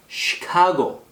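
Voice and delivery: "시카고" opened with a hushing sh; sh in Chicago. Shown as a demonstration. Teacher models the city name, clear sh onset. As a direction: say "시카고" starting with sh, not s. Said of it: "그래서 시, S 발음이 아니고요".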